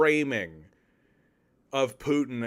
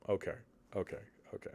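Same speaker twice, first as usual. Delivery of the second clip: whispered okay; 6 semitones lower, 14 dB quieter, much faster than usual. Real, not acted. Calming himself.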